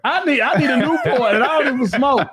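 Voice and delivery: high, laughing desperate plea; high pleading mock stress; mock desperate craving. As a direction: beg for a Newport, hammed up. Acting out emotional venter.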